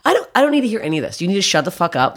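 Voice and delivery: fast, high-pitched protest; acted-out fed-up outburst; retold exasperation. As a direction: cut him off in a rush.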